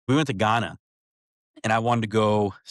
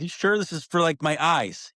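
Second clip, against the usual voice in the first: incredulous question; 6 semitones higher than usual. Retold or imitated. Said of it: "I was like".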